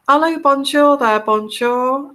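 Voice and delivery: a hint of French in a lifted greeting; French accent. Shown as a demonstration. Greeting viewers while talking about accents, light French accent. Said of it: "we've got the French accent".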